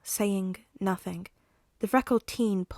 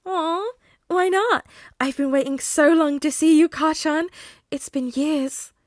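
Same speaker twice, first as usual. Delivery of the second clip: pouty villain voice; 8 semitones higher, 8 dB louder than usual. Acted. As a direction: drag it out like a hurt child. Villain pouts, teasing.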